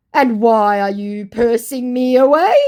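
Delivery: high, rising bewildered voice; baffled scammer. Acted. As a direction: sound utterly confused. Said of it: "said my absolutely baffled Mugu".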